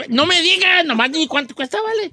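impatient interruption. Acted. Host cuts short friend's explanations, impatient. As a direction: demand just the price.

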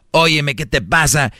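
mild mock scolding of his wife; a lightly acted angry husband, half-hearted; aggressive scolding. Husband acting out yelling at his wife over the vase, mild mock anger. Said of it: "hasta se oyó más agresivo".

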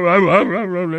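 repeated short barking bursts; imitated seal bark. Comic showing how seals bark, barking noises. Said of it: "de cómo ellas ladran".

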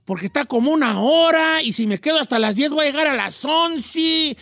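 building complaint, endings dragged out; mock exasperated ranting. Host listing the late hours of an outing, mock exasperated ranting. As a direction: pile up each hassle, increasingly worked up. Acted list of dreaded delays building.

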